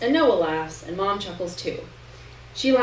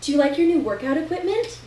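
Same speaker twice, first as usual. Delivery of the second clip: mom voice; 8 semitones higher, 4 dB louder than usual. A narrator's reading. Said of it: "Mom says".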